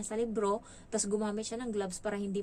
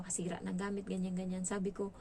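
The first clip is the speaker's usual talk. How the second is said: normal talking voice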